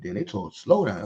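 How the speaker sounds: dragged-out slow talk. Retold or imitated. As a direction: mimic the slow pace. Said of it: "Let's speed that up".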